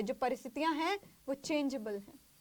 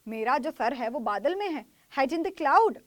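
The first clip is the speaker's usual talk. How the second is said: mock indignation; 7 dB louder than usual. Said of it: "मैं कहती".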